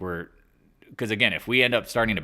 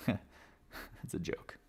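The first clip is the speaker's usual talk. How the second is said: whispered echo of the line; 12 dB quieter, much slower than usual. Retold or imitated. Trader echoing the landlord's words, whispered. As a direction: breathe it back as a whisper. Mocking the tiny mortgage.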